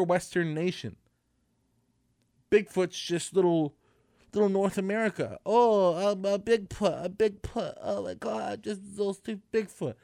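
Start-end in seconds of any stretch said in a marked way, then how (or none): 5.5-9.9 mocking voice. Mocking Bigfoot fans.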